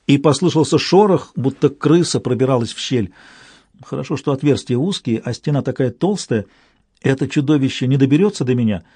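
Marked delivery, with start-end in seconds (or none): none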